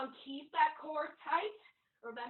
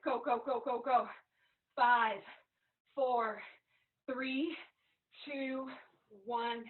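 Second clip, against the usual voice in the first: shouting encouragement; 3 dB louder, slower than usual. Real, not acted. Trainer counting down, urging.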